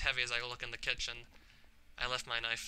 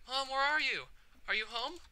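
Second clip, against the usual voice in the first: calling out; 11 semitones higher than usual. Acted. Calling for absent mother.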